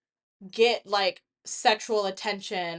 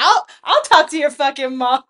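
angry shout; 3 semitones higher, 11 dB louder than usual. Retold or imitated. Protective friend yelling at a man touching her friend. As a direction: get in his face, protective.

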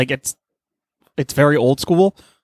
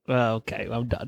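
much softer, trailing off in boredom; bored listener; 4 semitones lower, 11 dB quieter than usual. Retold or imitated. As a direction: give up on the show, fading out.

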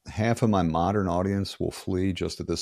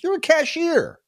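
high, incredulous jab; mock incredulous Jerry; 4 dB louder than usual. Jerry mocks his girlfriend's job, high incredulous jab. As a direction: fire the comeback high and scornful.

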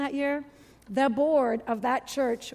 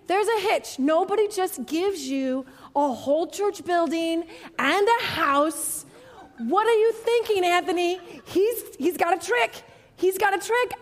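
suspicious naysaying; 4 semitones higher, 3 dB louder than usual. Retold or imitated. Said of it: "I kept saying".

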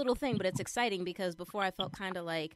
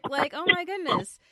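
much higher and louder, gushing; overwhelmed; 11 semitones higher, 9 dB louder than usual. Retold or imitated. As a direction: near tears of joy at work. Reacts to the fundraiser offer.

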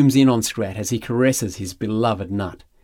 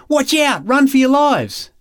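high, loud panicked yell; yelled warning; 14 semitones higher, 5 dB louder than usual. Acted. Jesus warning a crowd of a raging bull, yelling. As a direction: yell it like a bull is charging at them. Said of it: "he yells".

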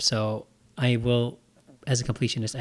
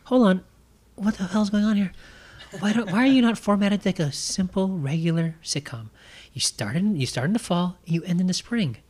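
exasperated; 6 semitones higher than usual. Retold or imitated. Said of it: "I'm, like, going".

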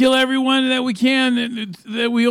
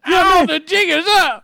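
mimicking the high voice; 8 semitones higher, 5 dB louder, slower than usual.

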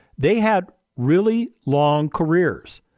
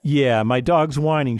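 ordinary talk

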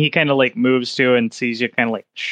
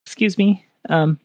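nervous clerk voice; 4 semitones higher than usual. Acted.

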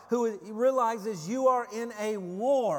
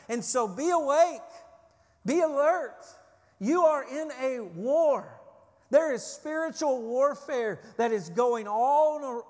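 rising to a loud, urgent call; louder, higher, rousing the church to wake up; urgent preaching; 4 semitones higher, 5 dB louder than usual. Real, not acted. Preacher urging congregation to alertness.

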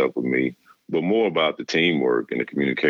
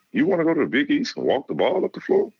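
much higher mock coach voice, needling; imitating the coach, scoffing; 13 semitones higher than usual. Coach mocking a rival school to a recruit, high mock voice. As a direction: play the coach teasing the recruit, pitched way up. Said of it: "He's like".

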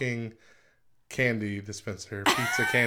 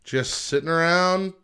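laughing; 4 semitones higher, 7 dB louder, slower than usual. Real, not acted. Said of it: "So, Matt".

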